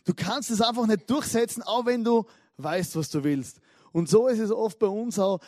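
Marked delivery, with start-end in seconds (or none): 0.0-3.6 pressing the insult home; full-throttle attack. Retold or imitated. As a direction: keep hammering at him. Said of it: "hat einfach Vollgas gegeben". (gereizt nachlegen gegen den Ehemann)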